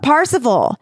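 lightly acted distant call. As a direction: call the name as a mysterious summons. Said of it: "Then a voice calls out".

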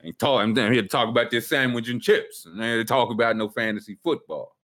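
lightly voiced Jersey working guy; a hint of a Jersey hard hat; Jersey construction worker. Host spoofing a worker on lunch break, Jersey construction accent. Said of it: "that's like Jersey construction worker".

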